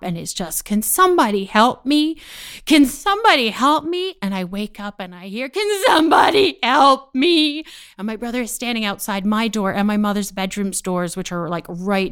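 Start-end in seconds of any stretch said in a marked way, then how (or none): 0.6-4.1 louder, pitched-up cry for help; little boy's nagging plea, acted out; insistent plea. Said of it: "the noise does not stop". 5.5-7.6 loud, high, drawn-out mock wail; retold cry for help, stretched out; imitated scream for help. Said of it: "he is screaming".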